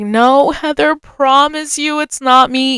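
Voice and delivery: mildly pleading, slowed reassurance; retold protest. Retold pleading with accusing friend.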